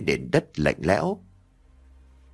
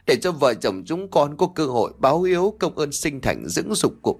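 a touch of fake weeping, pitched up; mock lament; 4 semitones higher than usual. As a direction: ham up a grieving daughter-in-law's lament. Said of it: "khóc lóc vật vã".

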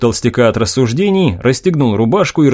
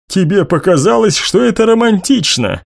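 heated; 7 semitones higher than usual. A narrator's reading. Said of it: "разгорячённый отец".

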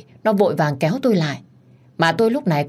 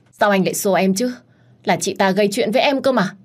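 higher, louder plaintive whine; whining complaint; 5 semitones higher, 3 dB louder than usual. Acted. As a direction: complain to him pleadingly. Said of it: "rồi kêu lên". (giọng kêu ca nũng nịu)

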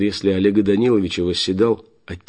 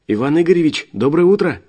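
put-on high, bright chirping girl; cartoon princess; 10 semitones higher, 6 dB louder than usual. A narrator's reading. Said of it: "прощебетала Алина".

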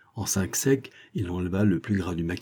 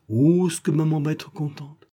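lightly voiced happy kid, higher pitch; delighted boy; 7 semitones higher than usual. A narrator's reading. Boy thrilled for his maman, delighted higher voice. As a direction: raise the pitch in childlike delight.

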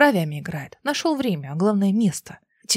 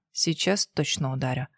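muttered threat; 6 semitones lower, 6 dB quieter than usual. A narrator's reading.

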